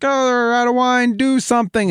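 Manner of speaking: high, pushy mom voice; high-pitched mom asking a favour; Mary as an eager mom. Retold or imitated. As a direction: nudge your son like a mom with a favour to ask. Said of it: "she was like".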